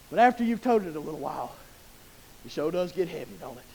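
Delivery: quiet, heavy-hearted admission; subdued, weighty aside. Shown as a demonstration. Preacher admits to church the burden wears, subdued and soft. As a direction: drop low and soft after the rousing build.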